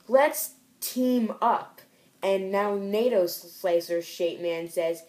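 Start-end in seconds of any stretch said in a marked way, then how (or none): 0.1-1.8 slow mock heroic. Hero proposes teaming up.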